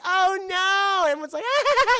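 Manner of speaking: high loud gasping cry; hammed-up alarm; shocked cry. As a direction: Star and the gang reacting as Michael drinks blood. Star and gang reacting to chug.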